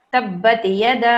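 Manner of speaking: تبت یدا with the دا stretched long; very slow recitation of تبت یدا; drawn out. Shown as a demonstration. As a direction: slowly pull out the madd on یدا. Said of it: "کھینچ کے پڑھیں گے".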